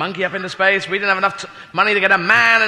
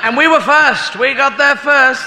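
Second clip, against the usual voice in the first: high-pitched mock boast; mock triumph; 6 semitones higher, 4 dB louder, slower than usual. Comedian boasts of Britain's space win, mock triumphant. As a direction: crow proudly about a non-achievement.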